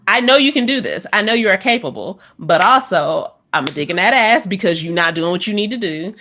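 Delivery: mock coach's firm encouragement; tough love. Former student voices band directors, mock tough love. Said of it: "that tough love environment".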